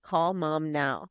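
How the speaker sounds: slow, weighted repeat of the request; mildly insistent, drawing out each word; insistent retold demand.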